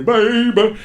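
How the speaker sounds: high, put-on crooning plea; creepy come-on. Kidding about his inner dialogue, creepy high come-on. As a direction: draw out baby in a high, silly voice. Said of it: "Kinda creepy".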